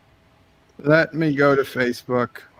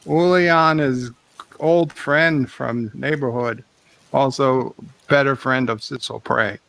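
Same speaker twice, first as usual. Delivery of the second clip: put-on Australian accent. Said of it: "I can stop the Australian accent".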